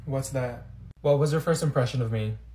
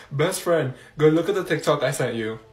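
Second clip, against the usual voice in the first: ordinary talk, nothing marked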